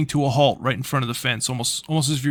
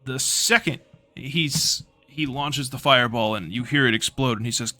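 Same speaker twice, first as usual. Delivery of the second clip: usual speaking voice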